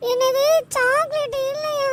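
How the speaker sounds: slow, drawn-out whine breaking into a wail; tearful dismay. Acted. Boy told by the shopkeeper the chocolate is gone, tearful dismay. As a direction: wail it slowly, as if about to cry.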